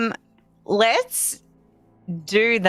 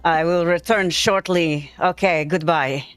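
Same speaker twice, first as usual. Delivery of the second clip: ogre voice; 5 semitones lower than usual. Pretend. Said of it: "I'm just like".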